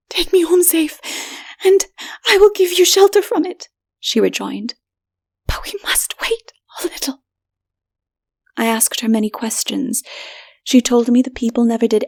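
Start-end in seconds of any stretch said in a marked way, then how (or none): 0.1-7.2 higher, half-whispered plea; hushed woman. A narrator's reading. Woman asking the stranger to escort her, hushed.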